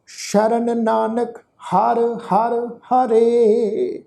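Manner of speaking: slow, measured reading of sacred verse; scripture recitation. Acted. The teacher recites the verse for the sangat, slow and devout. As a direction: intone each word slowly and with devotion.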